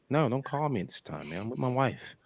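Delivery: annoyed husband hushing the caller; white guy voice. Shown as a demonstration. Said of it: "I can do some voices".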